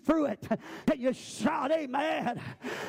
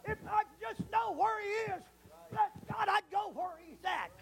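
quiet plea; 5 semitones higher, 4 dB quieter than usual. Acted. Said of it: "But Job said".

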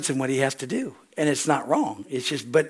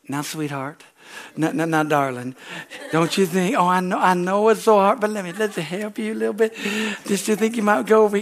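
sweet-talking God; 2 semitones higher than usual. Retold or imitated. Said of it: "he's never talked to me sweet".

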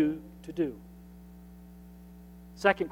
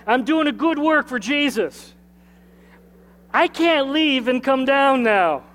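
rousing second try; 5 semitones higher, 3 dB louder than usual. Shown as a demonstration. Pastor urging church to repeat it with him, rousing and louder. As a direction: lift it up and drive it home. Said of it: "We'll try it again".

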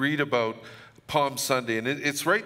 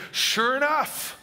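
higher and louder, laughing through the words; 11 semitones higher, 4 dB louder than usual. Real, not acted. Pastor laughing while telling the congregation his story, laughing. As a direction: laugh as you tell the punchline.

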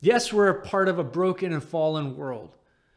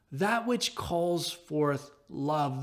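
That which calls forth love, slow and much softer; reflective echo; 2 semitones lower, 5 dB quieter, much slower than usual. Shown as a demonstration. Pastor echoes Barclay's definition, slow and hushed. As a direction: let the phrase settle slowly. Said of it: "echoed phrase".

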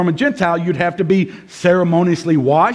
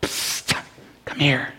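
hushed, lowered aside with a psst; near-whispered, confidential summons; discreet beckoning; 4 semitones lower, 7 dB quieter than usual. Acted. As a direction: call them over on the quiet. Paul beckoning preachers aside discreetly.

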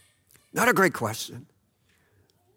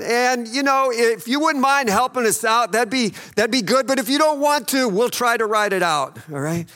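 timid polite disciple; 4 semitones higher than usual. Retold or imitated. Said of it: "this isn't John going over to Jesus as he's sleeping and going".

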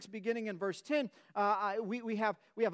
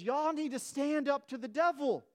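preaching fervor; 5 semitones higher than usual. Retold or imitated. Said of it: "he says, he says".

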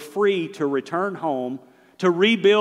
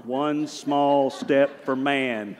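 Neil Armstrong; much slower than usual. Retold or imitated. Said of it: "It's like Neil Armstrong".

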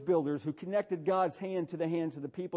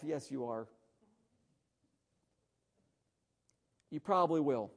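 muttered to himself; 4 semitones lower, 6 dB quieter than usual. Retold or imitated. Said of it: "I'm going to myself".

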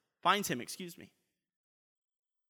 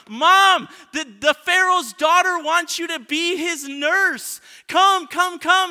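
much higher and louder, breathless with news; a girl bursting with good news, calling her mom; excited Miriam; 10 semitones higher, 12 dB louder, slower than usual. Acted. Miriam runs to tell her mother the Pharaoh's daughter wants her: thrilled, high, loud calling. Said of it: "I can just imagine now the excitement".

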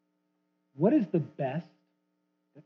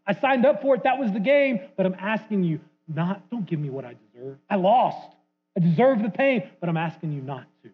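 pleading loser; 5 semitones higher, 3 dB louder than usual. Retold or imitated. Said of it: "They say".

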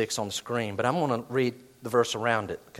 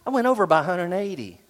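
dismayed gasp; 5 semitones higher than usual. Retold or imitated. Dieter's dismayed self-talk.

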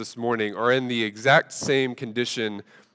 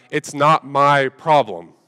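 slow, louder, each word laid down; defiant kid; 3 semitones higher, 6 dB louder, much slower than usual. Retold or imitated. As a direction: drag it out smugly. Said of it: "my statement was".

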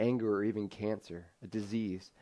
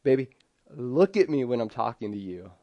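firm parent rebuke; 5 dB louder than usual. Retold or imitated. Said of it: "look her in the face".

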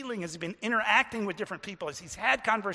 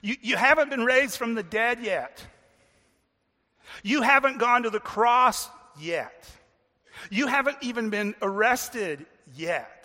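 puzzled objection; 3 semitones higher, 7 dB louder than usual. Acted. Listener raising a hand to question Jesus, puzzled protest. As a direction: interrupt to challenge, hammering each point. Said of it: "We want to raise our hand and go".

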